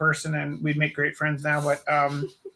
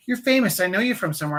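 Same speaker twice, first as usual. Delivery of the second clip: lightly voiced stranger, pitched higher; a hint of a starstruck stranger; insistent stranger; 4 semitones higher, faster than usual. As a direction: play an excited lady sure she recognizes someone. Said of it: "And she goes".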